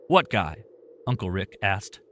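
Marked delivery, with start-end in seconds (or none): 0.1-0.6 sharp, worried question, a bit louder. Acted. Uncle Rick asks Tim about the intruder, worried. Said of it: "voice filled with worry".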